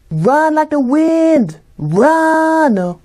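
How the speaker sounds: high, slow, drawn-out cheer; dramatic cheering. Acted. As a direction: urge them on grandly. Cheering at the game.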